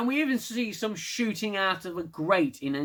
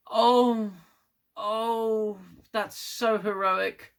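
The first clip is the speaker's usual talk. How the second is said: higher, breathy-sounding mock swoon; swooning president; 5 semitones higher, much slower than usual. Mocking the president's reaction, higher swooning gush. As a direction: gush over the hero theatrically. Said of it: "the president lady does, and she goes".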